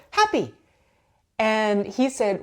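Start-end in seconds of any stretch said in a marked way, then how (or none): 0.1-0.5 put-on high, loud toddler squeal of joy; toddler's happy shout. Toddler shouting over her cinnamon toast, high and loud. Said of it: "She would pet a dog and go".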